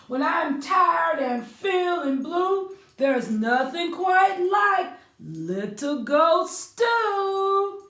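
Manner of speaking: grumpy troll. Acted. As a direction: growl out the troll's threat. The troll leaps out and rhymes.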